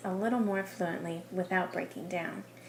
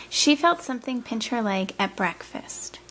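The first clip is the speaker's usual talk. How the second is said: "breakfast" dropping to a full stop; voice going down; 2 semitones higher, 5 dB louder than usual. Shown as a demonstration. Teacher models a period for a student, voice going down. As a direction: let the pitch fall on "breakfast". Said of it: "Did you hear my voice go down?".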